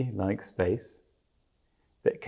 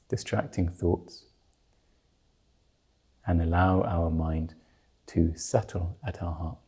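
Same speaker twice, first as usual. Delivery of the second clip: calm, measured meditation guidance with long pauses; guided meditation. Real, not acted. Teacher settling listeners before they meditate on the root mind, guided meditation. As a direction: ease listeners into stillness, leaving space between phrases.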